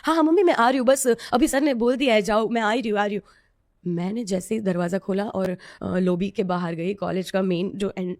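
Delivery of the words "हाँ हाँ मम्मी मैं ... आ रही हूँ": bright hurried pretend reassurance on a fake call; fake phone call to mom. Fleeing the coach, she fakes a phone call to her mom, brightly. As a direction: act like mom is on the line, lightly. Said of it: "झूठ मूठ का बोल रही हूँ".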